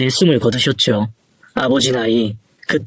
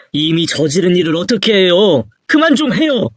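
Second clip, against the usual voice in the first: fed-up son, pitch jumping at the end; exasperated protest; irritated retort; 3 semitones higher than usual. Acted. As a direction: push back against the nagging. Son snaps back at father.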